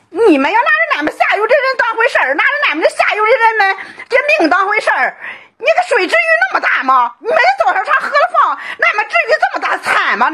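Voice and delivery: high, crying complaint that breaks into a shout; high crying lament at the officials over the flood; wailing lament. Real, not acted. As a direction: sob out the grievance at the officials. Villager wails at officials over flood.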